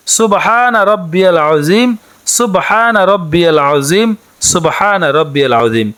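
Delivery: slow, measured Arabic recitation, each word clear; careful recitation. Shown as a demonstration. Teacher showing women the prayer words, slow careful recitation. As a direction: recite it slowly so learners can copy. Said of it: "বাংলাতে উচ্চারণটি হচ্ছে".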